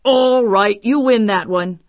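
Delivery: high, loud monster outburst; roaring. Acted. Annoyed tokebi losing the first round, loud roar. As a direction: roar the grudging concession. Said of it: "Then he roared".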